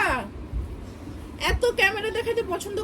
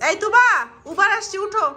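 raised calling voice, higher; 4 semitones higher, 5 dB louder than usual. Real, not acted. Mother calling child to get up.

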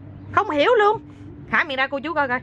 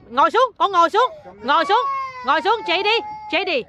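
calling out; 6 semitones higher, faster than usual. Real, not acted. Mother calling to her crying child, coaxing. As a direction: urge the little one on, pitched up.

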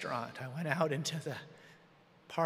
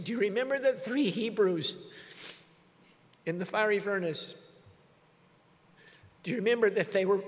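raised, pleading cry to God; a father on his knees crying out to God, pleading; desperate prayer; 4 semitones higher, 4 dB louder than usual. Retold or imitated. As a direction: beg God aloud for your daughter. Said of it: "I started calling out loud to God".

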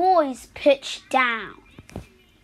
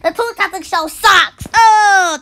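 loud crying wail; loud crying wail over the show; wailing complaint; 4 semitones higher, 5 dB louder than usual. Acted. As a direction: wail it like a hurt cartoon kid. Cartoon character wailing complaint.

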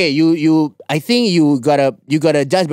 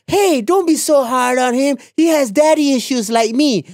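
imitating a pleading co-host; 9 semitones higher than usual. Mimicking co-host defending her friend, high mock pleading. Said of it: "It's like".

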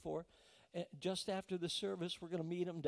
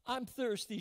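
put-on mild child's voice; 6 semitones higher than usual. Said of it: "she said".

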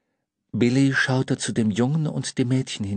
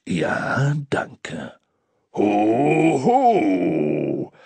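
jolly Santa laugh; 5 dB louder, much slower than usual. A narrator's reading.

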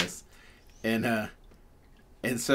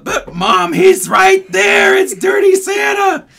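put-on very high, loud kid's shriek; child shouting; 17 dB louder, slower than usual. Girl shouting to her mother across the store, very high and loud. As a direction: insist at the top of her lungs. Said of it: "trying to get her child".

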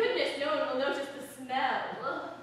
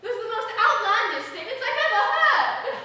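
laughing delight; 4 semitones higher, 9 dB louder than usual. Acted. Delighted noble at the outburst.

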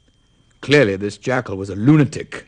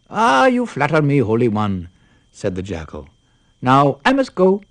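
sly yippy jackal; 4 semitones higher than usual. Acted. Jackal answers Brahmin.

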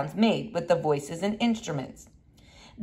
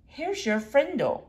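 slow deliberate; 5 semitones higher, 4 dB quieter than usual. Acted. The new word, slow and deliberate.

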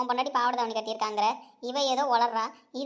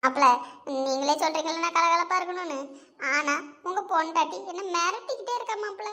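a scared aunt pleading, babbling her confession; lightly voiced fearful mother-in-law; frightened aunt; 2 semitones higher than usual. Frightened aunt confessing to her son-in-law, pleading and babbling.

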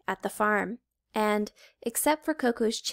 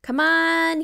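higher, louder call across the bus; 7 semitones higher, 7 dB louder than usual. A narrator's reading. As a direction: shout it to the whole bus. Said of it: "he called".

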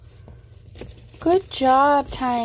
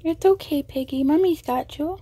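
high, gentle reassurance; 4 semitones higher than usual. Real, not acted. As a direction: comfort a nervous little one. Calming a scared pet bird.

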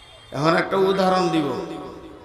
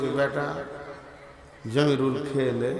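coaxing mother; 5 semitones lower, 9 dB quieter than usual. Retold or imitated. Mother coaxing sulking son.

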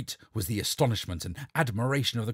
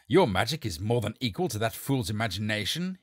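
assuring; 4 dB louder than usual. Acted. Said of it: "he assured her".

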